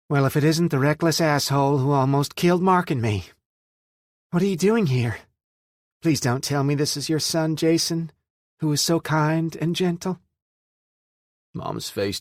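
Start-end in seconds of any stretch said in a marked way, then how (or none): 0.1-10.2 higher, louder mocking sneer; mock him with biting sarcasm; sarcastic. A narrator's reading. Billy sneers at Jason.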